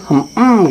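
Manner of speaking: short grudging hum; a child humming to dodge the question; reluctant child hum. Retold or imitated. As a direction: hum without committing. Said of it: "gitu aja ngomongnya".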